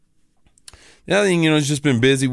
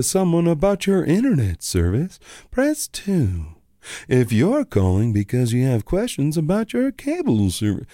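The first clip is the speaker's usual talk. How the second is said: lightly voiced automated menu; mock phone menu. Mocking the cable company's phone menu, robotic recited tone. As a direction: recite it like a recorded phone system. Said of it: "my mom's like".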